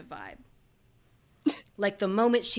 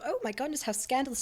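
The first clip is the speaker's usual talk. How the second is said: mock scandalized; 5 semitones higher, faster than usual. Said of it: "sort of vibe".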